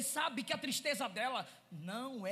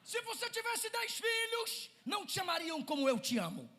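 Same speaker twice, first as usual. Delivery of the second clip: higher, earnest promise; loving husband; 3 semitones higher, 6 dB louder than usual. Acted. Husband promising his wife he loves her more, earnest. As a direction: vow it with devotion. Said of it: "O que ele tá dizendo é".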